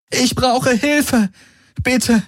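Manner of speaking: put-on high, slow, pleading young woman; desperate plea. A narrator's reading. Kirai begs the few surviving soldiers for help. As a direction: beg for help, near tears.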